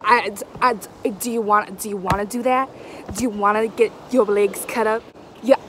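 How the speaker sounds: anxious chatter while wading over sharp rocks; scared. Real, not acted. Wading nervously over rocks, talking to camera, scared. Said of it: "I feel so scared right now".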